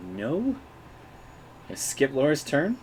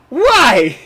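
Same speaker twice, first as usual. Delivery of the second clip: high, loud mock wail; Mabehi; 17 dB louder than usual. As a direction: cry out in hammed-up dismay. Acts punched character crying out.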